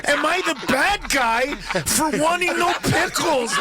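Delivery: indignant customer ranting about pickles; mock angry customer.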